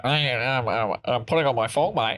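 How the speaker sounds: lightly exaggerated watery Australian accent; Australian accent as if on the water. Repeating it after the underwater remark, wobbly mock Australian accent. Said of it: "Sounds like they're on the, on the water".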